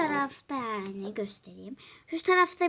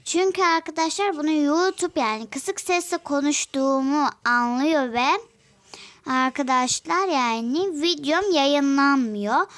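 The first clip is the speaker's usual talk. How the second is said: louder on purpose to be heard; shouting; 2 semitones higher, 5 dB louder than usual. Real, not acted. Telling viewers she talks loud so YouTube hears her. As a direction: push the voice out loud. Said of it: "O yüzden çok bağırıyorum".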